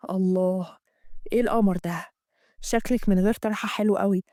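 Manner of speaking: Amgad. Acted. Amgad voiced in the story.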